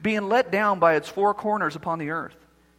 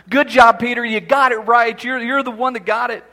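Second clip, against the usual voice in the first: Jesus praising Peter; 3 semitones higher, 7 dB louder than usual. Acted. Praising Peter after right answer.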